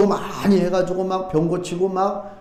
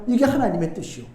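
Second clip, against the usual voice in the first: normal talking voice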